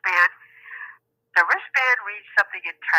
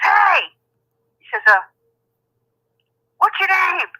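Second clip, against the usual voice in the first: higher, louder mock call down the hall; 10 semitones higher, 4 dB louder, slower than usual. Sedated man calling to the doctor, mock call. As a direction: call out like a woozy patient.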